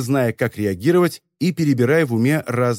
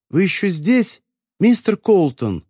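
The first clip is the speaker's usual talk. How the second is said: higher, slow muffled call; 6 semitones higher than usual. A narrator's reading. Voice in the suitcase asking Frank, muffled. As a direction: call out through the lid. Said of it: "раздался приглушённый голос".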